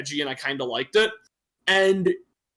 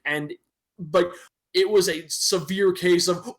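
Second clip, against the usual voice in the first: ordinary delivery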